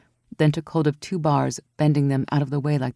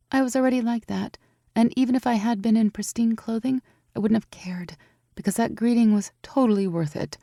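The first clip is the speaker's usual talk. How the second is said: raised voice for Evie, anxious and amazed; young woman Evie, worried; 6 semitones higher than usual. A narrator's reading. Evie amazed that Aurora climbed so high, worried. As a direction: lift your voice high, fretting over the climb. Evie's voice.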